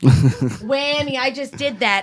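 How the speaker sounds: imitating a partner's playful catchphrase; goofy funny voice. Partner breaking an argument to be funny, goofy voice. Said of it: "just to be, like, funny".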